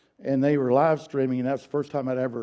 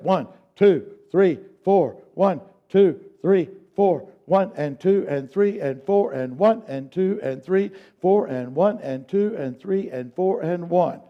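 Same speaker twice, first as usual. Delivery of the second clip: faster counting; 3 semitones higher than usual. Shown as a demonstration. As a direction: pick up the count. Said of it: "now speed up".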